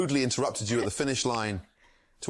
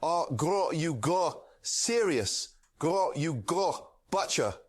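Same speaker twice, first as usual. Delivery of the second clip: higher chef voice with a growled grr between words; chef growling grr; 4 semitones higher, slower than usual. Acted. Streamer voices the chef for a chat request, growling. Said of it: "Grr, after every few words".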